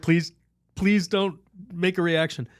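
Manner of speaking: high, drawn-out nervous plea; mock pleading. Storyteller pleads with the hippo he kicked, mock-fearful. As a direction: beg slowly, as if not to provoke it.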